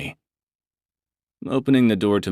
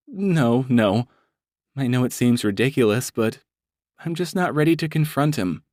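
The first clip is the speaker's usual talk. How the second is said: a hint of a higher nervous woman; lightly voiced woman; 6 semitones higher than usual. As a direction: say it as a hesitant client. Brandy flustered.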